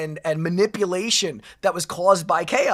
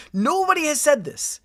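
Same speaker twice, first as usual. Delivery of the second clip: indignant disbelief; 7 semitones higher than usual. Real, not acted.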